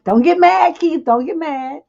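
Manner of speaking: loud, high teasing plea; playful calling out. Real, not acted. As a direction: call out to him in jest.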